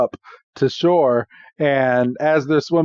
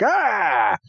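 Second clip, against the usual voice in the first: half-hearted cartoon scream; mock scream; 6 semitones higher than usual. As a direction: imitate a falling scream without full volume. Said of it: "out comes Ash screaming with Oshawott".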